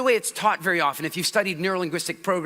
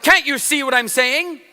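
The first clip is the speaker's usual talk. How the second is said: visual person pleading; 6 semitones higher, 5 dB louder than usual. Retold or imitated. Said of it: "They say stuff like".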